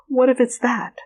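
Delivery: whispered worry, half to herself; anxious whisper. Retold or imitated. Fearful viewer whispering her worried thoughts. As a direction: breathe it like a nervous student.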